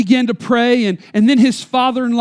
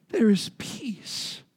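softer, whispered slowly; hushed whisper; 10 dB quieter, much slower than usual. Real, not acted. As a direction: let the word peace fall into a hush. Tender climax about mama's name.

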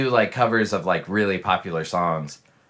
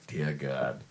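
"Dear God" said much softer and lower, to yourself; inner voice sigh; 6 semitones lower, 11 dB quieter than usual. Retold or imitated. Venting silently at work about a coworker, quiet and weary. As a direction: mutter it under your breath, weary. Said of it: "In your head".

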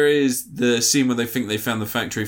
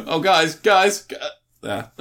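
panicked flying; 5 semitones higher, slower than usual. Retold or imitated. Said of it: "It's like".

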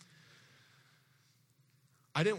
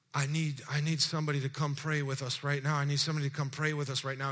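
frantic plea; 2 semitones higher, 4 dB louder than usual. Retold or imitated. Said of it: "He was extremely frantic".

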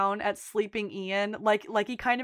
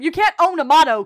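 loud, high acted retort; indignant shout; 6 semitones higher, 12 dB louder than usual. Friend retorts over a stolen motto, indignant shout. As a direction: fire it back loudly, imitating an argument.

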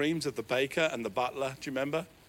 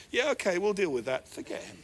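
offhand God; 4 semitones higher than usual. Retold or imitated. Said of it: "God looks down and says".

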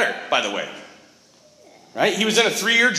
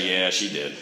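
laughing yeah; 11 semitones lower, 4 dB quieter than usual. Retold or imitated. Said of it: "He's like".

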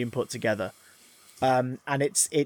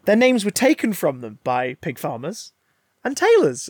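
mock menace; 5 semitones higher than usual. Magneto's menacing reveal.

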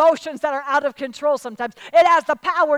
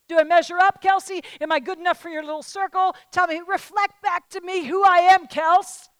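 louder, anxious begging for approval; needy pleading; 3 semitones higher, 4 dB louder than usual. Acted. Woman begging her friend Kelsey for approval, needy and loud. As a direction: plead with a friend to be told you're good enough.

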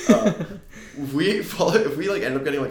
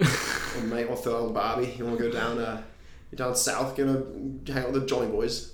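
badly faked Aussie accent sliding into British; mock Australian accent. Shown as a demonstration. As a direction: attempt Australian, drift toward British. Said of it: "I can do a couple of really good accents".

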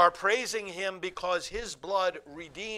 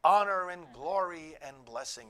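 heavenly acclamation; 4 semitones higher, 7 dB louder than usual. Acted. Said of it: "and saying".

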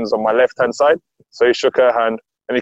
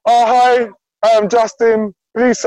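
imitating Leroy; 8 semitones higher, much slower than usual. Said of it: "he's like".

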